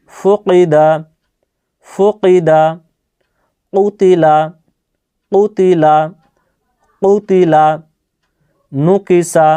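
each word whole and measured, falling at the end; repeated pronunciation drill. Shown as a demonstration. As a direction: model each word carefully, pausing between repeats. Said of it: "আমি কয়েকবার করে বলছি". (থেমে থেমে কয়েকবার উচ্চারণ করে দেখানো)

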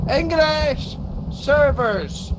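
high, slow, drawn-out cry of disbelief; exasperated outburst. Real, not acted. Gamer fed up with foreign teammates, exasperated high drawn-out cry. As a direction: stretch it out in outraged disbelief. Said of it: "What happened to English servers?".

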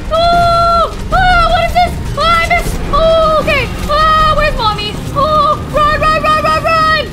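very high, frantic voice; high-pitched terror while fleeing; panicking. Real, not acted. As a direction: squeal it in a panic. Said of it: "I'm panicking".

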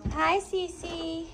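high cooing hello to a puppy; greeting the puppy Cece in a high coo; sing-song greeting. Real, not acted.

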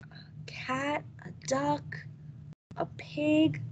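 soft whispered recap; a hushed recap. Shown as a demonstration. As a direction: whisper the list like a secret. Whispered list to children.

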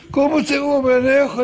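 high-pitched, insistent command; urgent order. Retold or imitated. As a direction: order everyone out at once. Pharaoh urgently orders Israel out.

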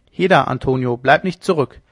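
loud call over the shoulder; calling back. Acted. Leone calling back to Antonio, loud hail. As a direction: hail the lagging friend.

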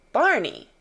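a startled call to a friend; cried out. Acted. Officer calling to Barney on finding the child. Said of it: "he cried out".

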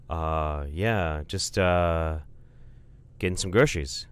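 mildly nervous, halting reply; spooked. Acted. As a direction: hesitate as if lightly spooked by a giant. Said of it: "visibly spooked".

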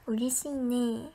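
slow, breathy whisper to herself. Real, not acted. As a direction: hush it, slowly, just for you. Private aside to self.

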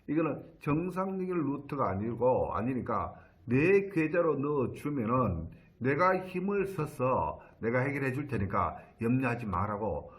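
retold with mild, measured assurance; confident retelling. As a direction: lightly voice someone reassuringly sure of themselves. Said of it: "아주 당당한 그런 말투로". (당당한 말투를 가볍게 흉내 내며)

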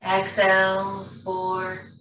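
slow, calm breath-work guidance with long pauses; guided breathing. Acted. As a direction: ease the class through each breath.

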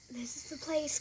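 sneaky hushed whisper. Acted. Sneaking into the house.

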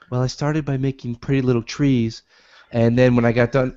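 a hint of a gentle TV painter; Bob Ross voice. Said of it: "is that Bob Ross".

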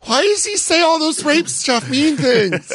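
high, whiny mock millennial; naive millennial. Host imitates a young fan shocked by Dice, high whiny voice. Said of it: "they'd be like".

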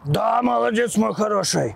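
high sing-song praise for a dog; squeaky praising a dog. Real, not acted. Owner praising his dog.

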